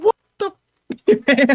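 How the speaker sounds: very high, loud, stretched-out disbelief; incredulous manager. Retold or imitated. Manager behind closed door to employee, incredulous outburst.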